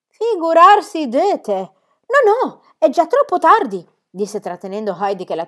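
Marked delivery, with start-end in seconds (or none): 0.1-3.9 loud, high exasperated objection; sharp refusal. A narrator's reading. Aunt holding the child back from a visit, exasperated. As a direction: cut the child off firmly, pitched up.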